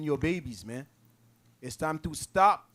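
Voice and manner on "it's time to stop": louder and slow, every word leaned on; firm slow call to stop; emphatic warning. Real, not acted. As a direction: drive the warning home slowly. Preacher repeats the warning.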